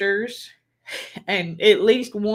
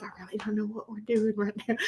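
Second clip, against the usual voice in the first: softer, laughing through the words; laughing confusion; 2 semitones higher, 9 dB quieter, faster than usual. Retold or imitated. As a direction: giggle it, baffled. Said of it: "And I'm like".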